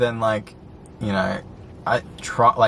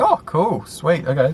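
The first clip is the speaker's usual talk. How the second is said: mock cheerful; 4 semitones higher than usual. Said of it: "And you're like".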